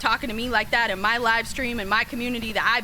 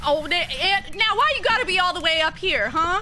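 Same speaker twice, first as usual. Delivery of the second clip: surprised; 7 semitones higher than usual. Real, not acted. Startled by pop-up on screen.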